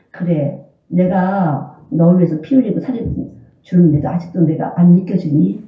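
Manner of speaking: lightly voiced God; God's voice. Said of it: "이러고 하세요".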